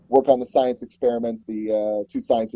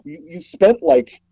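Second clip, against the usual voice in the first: higher, a little louder, slowed, in mock disbelief; a lightly played stunned co-director; flabbergasted disbelief; 5 semitones higher, 3 dB louder than usual. Co-director baffled that he wants to start over, mock disbelief. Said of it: "just absolutely flabbergasted".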